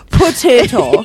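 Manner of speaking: high, drawn-out Irish "Potato"; mock Irish accent. Echoing the co-host's cliché, mock Irish accent. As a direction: stretch it in a silly Irish brogue, amused.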